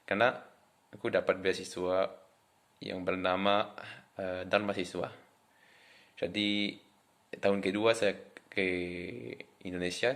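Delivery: French accent in Indonesian; foreigner speaking indonesian. Real, not acted. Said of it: "orang Perancis yang bisa ngomong bahasa Indonesia".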